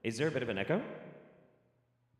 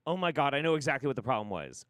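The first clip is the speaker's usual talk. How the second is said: excited realisation; 3 semitones higher, 4 dB louder, faster than usual. Real, not acted. Sudden realisation.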